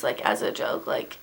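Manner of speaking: a quick muttered aside; whispered aside. Real, not acted. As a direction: whisper the aside under the breath. An aside while ranting.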